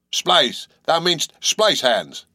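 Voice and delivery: correcting with gusto; cried out. Acted. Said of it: "cried Peleg".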